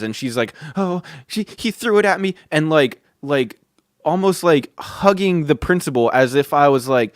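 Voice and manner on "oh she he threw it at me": higher, halting imitation of a tearful teacher; small, put-on tearful voice; mock near-tears. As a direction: pretend you're about to cry as you accuse him. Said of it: "on the verge of tears".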